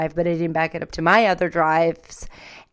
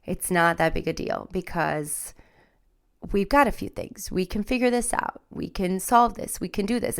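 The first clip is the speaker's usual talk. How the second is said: reassuring inner voice; 4 dB quieter than usual. Retold or imitated. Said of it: "my body and my mind were like".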